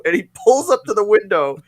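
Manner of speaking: normal talking voice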